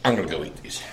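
whispering. Real, not acted. Sneaking off to eat.

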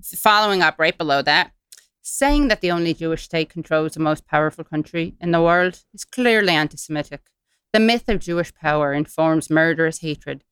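put-on Irish accent, reading formally; stern email in mock Irish. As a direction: read it with a light Irish lilt. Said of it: "doing this in an Irish accent".

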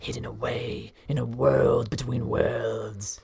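unvoiced conspiratorial whisper; crazed whisper. Professor whispering her discovery to a student. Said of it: "You sounded a little crazy there".

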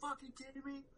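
high, disbelieving shout-like squeal; losing my mind. Retold or imitated. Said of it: "I was losing my mind".

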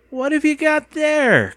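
high, loud, drawn-out question; booming nosy aunt. A narrator's reading. Aunt demands to see the boy's can, high and loud.

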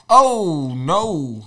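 confident. Retold or imitated. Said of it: "confidently like".

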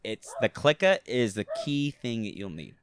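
lightly hammed-up East Coast accent; Jersey accent. Playing a kid from the block, light Jersey accent. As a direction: lay on a little Jersey neighbourhood accent. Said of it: "sound like you're from, from New Jersey".

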